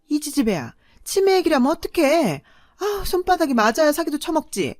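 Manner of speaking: put-on mother hushing the older daughter's slip; hissing scold. A narrator's reading.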